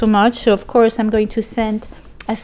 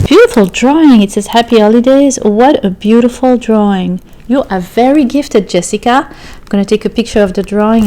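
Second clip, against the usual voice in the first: loud delight; 10 dB louder than usual. Real, not acted. Admiring a gift drawing.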